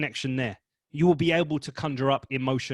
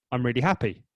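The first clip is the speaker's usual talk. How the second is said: flat, unconvincing I'm really happy; deadpan happiness; 2 semitones lower, 3 dB louder than usual. Shown as a demonstration. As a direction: say happy as if you don't mean it. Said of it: "you're like, "Are you, mate?".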